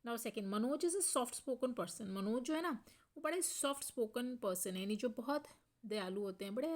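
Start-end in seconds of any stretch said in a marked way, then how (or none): 0.5-2.0 very slow, each word spaced out; slow dictation. Shown as a demonstration. Teacher reading the example sentence aloud to students, very slow. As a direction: spell it out for the class.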